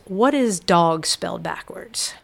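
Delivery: whispered into the ear; a secret told right in the ear; woman at book signing whispering to Sam. Retold or imitated. Talking to me in my ear.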